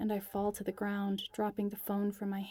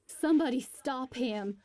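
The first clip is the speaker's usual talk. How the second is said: higher, loud desperate cry; 4 semitones higher, 4 dB louder than usual. A narrator's reading. Clover cries out as Jonah swings the hammer. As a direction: beg someone to stop him. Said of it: "cries Clover".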